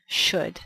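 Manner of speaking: should said slowly and cleanly, ending on a clear d; teacher sounding out should; careful should. Shown as a demonstration. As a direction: model the word should for learners. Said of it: "La pronunciación es como S H U D".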